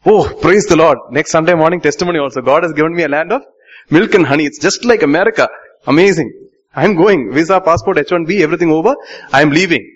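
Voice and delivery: a touch of giddy, quick excitement; mock eager testimony. Preacher mocking a believer grabbing blessings, lightly eager. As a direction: play the greedy believer rushing off. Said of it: "What did Moses say?".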